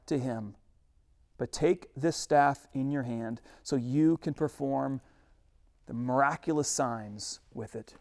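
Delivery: measured reading of the Bible; scripture reading. Acted. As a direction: read the verse with weight. Reads scripture passage.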